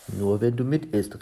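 a touch of an exclamation; called out. Acted. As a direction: call it out lightly, in character. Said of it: "rief sie".

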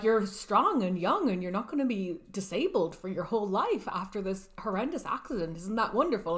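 sing-song cheery doctor, brisk; mock upbeat good news, bouncing pitch; hammed-up bright bedside pep talk; chirpy reassurance. Doctors cheerfully reassuring injured teen.

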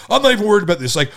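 high, pressing retold complaint; imitated heated demand. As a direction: mimic someone dumping a crisis on you. Retelling someone's heated demand.

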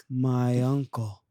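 slow, level poem ending; slam poetry reading. Acted. Poet closing the reading, slow intoned delivery. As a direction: intone the closing words slowly. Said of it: "Do you want me to do a reading".

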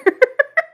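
short high laugh; a loud, high burst of laughter. Real, not acted. Laughs at own remark.

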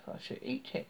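high witch whisper; whispered threat. A narrator's reading. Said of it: "The witch said".

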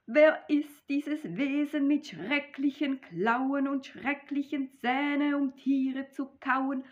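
high, loud frightened telling of claws and teeth; a mouse shaken by the Gryffalo. Acted. Mouse meets the Gryffalo, speaking loud and afraid. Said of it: "ich fürchte mich so".

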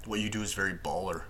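understated, matter-of-fact quote; lightly imitated deadpan line. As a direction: state it as objective fact, no compliment intended. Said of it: "it's so matter of fact".

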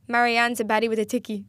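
clumsy mock Irish accent, playful catchphrase; bad Irish accent. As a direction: have a poor go at Irish. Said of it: "we would try to do this accent".

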